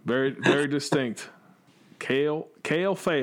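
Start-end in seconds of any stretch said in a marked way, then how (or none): 2.0-3.2 put-on Cale Phelps' accent. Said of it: "It's hard to mistake Cale Phelps from".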